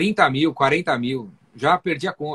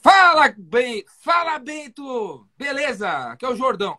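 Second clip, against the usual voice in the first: calling the doctor, far more excited than him; enthusiastic greeting; 6 semitones higher than usual. Shown as a demonstration. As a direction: burst in with energy. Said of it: "falo já com mais tesão que o cara".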